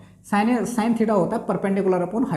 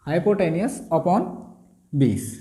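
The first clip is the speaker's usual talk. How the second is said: slow dictation; 2 semitones lower, much slower than usual. Shown as a demonstration. Teacher dictating the answer to students, slow and spaced. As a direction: dictate it word by word. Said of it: "क्या हो जाएगा".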